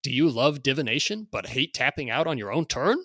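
loud, high hard-sell pitch; carnival barker. Acted. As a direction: hype it like a fairground barker. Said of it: "read this in sort of a carnival barker".

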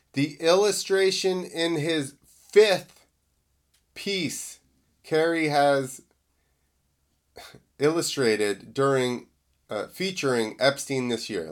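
halting, tripping over the words; botched read with stops; stumbling misread. Real, not acted. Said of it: "Let me read that again 'cause I screwed it up".

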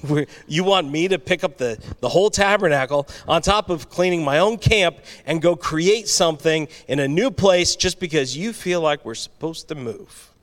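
exasperated Aaron. Retold or imitated. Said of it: "And he's like".

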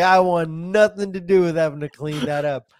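high, retold protest; emphatic refusal. Ex-employee retelling his bathroom cleanup refusal, emphatic.

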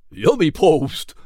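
slow, delighted horse character; Bill. A narrator's reading. Bill tasting molasses, delighted slow horse voice. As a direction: savour it in a drawn-out put-on voice.

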